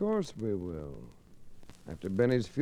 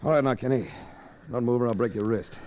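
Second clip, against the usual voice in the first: threat; 4 dB louder than usual. Acted. Pins Kenny down, threatens him.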